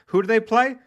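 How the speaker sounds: high, loud rising questions; hyped-up prompting. Pretend. Host cues co-host for his team, excited rising questions. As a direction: build the crowd up for the reveal.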